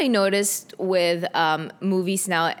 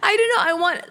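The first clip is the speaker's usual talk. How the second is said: laughing; 11 semitones higher, 4 dB louder, much faster than usual. Real, not acted. Laughing at own confession.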